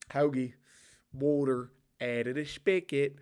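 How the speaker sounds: Philly accent, word by word. Shown as a demonstration. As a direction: try out Philly catchwords in the accent. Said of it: "I'm just doing an array of accents".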